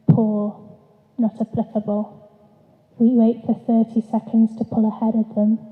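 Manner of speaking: measured poetry reading voice; poem reading. Acted. Poet reading her poem to an audience, measured. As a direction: read each line as a poem, letting it settle.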